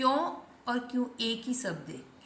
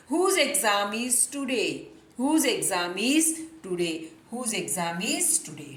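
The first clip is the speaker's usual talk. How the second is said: very slow, word by word; slow dictation-style read; slow model sentence; much slower than usual. Shown as a demonstration. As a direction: spell it out slowly for learners. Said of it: "teacher models English sentence slowly".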